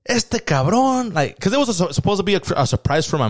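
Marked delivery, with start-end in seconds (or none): 0.0-1.1 high, slow teasing mom imitation; mock mom voice. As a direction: drag it out like a mom scolding her son. Mom's voice in birthday story.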